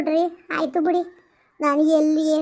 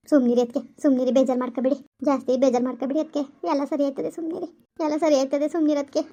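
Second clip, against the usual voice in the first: lower, firm motherly comfort, a bit faster; consoling mother-in-law; 4 semitones lower than usual. Acted. Mother-in-law hushing her crying pregnant daughter-in-law, lower comforting voice. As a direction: talk her out of crying like an older woman.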